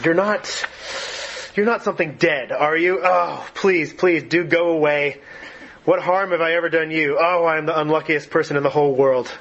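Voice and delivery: mild mock terror, a touch of a scream; frightened near-scream. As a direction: beg the thing in the dark to go away. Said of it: "almost in a scream".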